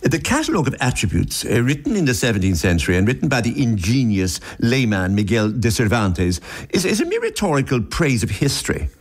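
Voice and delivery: put-on English newsreader accent; lofty mock English accent. Shown as a demonstration. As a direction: read it with English-accented authority. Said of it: "if you read this in an English accent".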